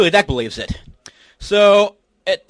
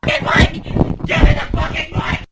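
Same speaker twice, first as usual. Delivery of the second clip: distant yelling; 4 semitones higher, 6 dB quieter than usual. Real, not acted. Mic cut, heard from distance.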